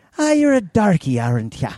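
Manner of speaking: put-on drunk Irish woman voice. Retelling a childhood street encounter, imitating a drunk Irish woman. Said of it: "a thirty-five-year-old Irish woman with no teeth would walk by".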